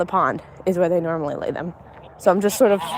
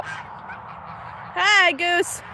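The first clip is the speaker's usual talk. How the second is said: soft pet greeting; 9 semitones higher, 3 dB quieter than usual. Real, not acted. Greeting the goose.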